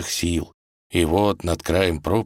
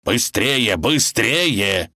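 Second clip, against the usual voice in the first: raised, urgent order; commanding; 5 semitones higher, much slower than usual. Acted. Wolf leaps from the water urging them on, commanding. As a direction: hurry them along insistently. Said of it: "выскочил волк и скомандовал".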